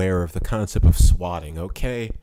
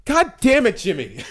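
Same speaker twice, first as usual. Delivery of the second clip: laughing outburst; 10 semitones higher, 3 dB louder than usual. Real, not acted. Outburst at friend revealing hometown.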